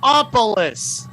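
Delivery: high-pitched imitated Greek greeting; put-on Greek voice, stretched last word; mock Greek restaurateur. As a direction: announce him like a Greek host with a long name. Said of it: "they go".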